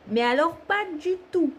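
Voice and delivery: "pas du tout" pitched high for emphasis; emphatic disavowal. Real, not acted. Card reader distances herself from some things, stressing "pas du tout". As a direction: lift and stretch "pas du tout".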